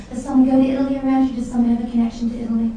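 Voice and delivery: fast eager medium questions; rapid-fire questions. Real, not acted. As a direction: rattle off the questions quickly. Medium asks audience rapidly.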